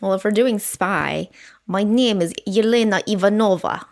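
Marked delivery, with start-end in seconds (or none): 1.7-3.9 put-on Russian accent. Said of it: "let's see how long you're gonna hold that accent".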